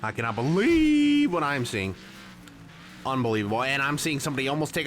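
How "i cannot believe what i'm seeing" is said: disbelief. Real, not acted. Exclaims at a wild move.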